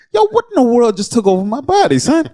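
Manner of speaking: high-pitched, hyped-up fan outburst; re-enacted screaming. Fan re-enacting himself screaming at the game, high and excited. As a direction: act carried away by sudden game-day frenzy. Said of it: "I find myself screaming".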